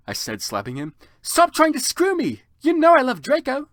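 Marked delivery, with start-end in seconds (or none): 1.2-3.7 loud, high angry yell; high piercing angry shout. Acted. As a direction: scream it at him in fury. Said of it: "I shouted".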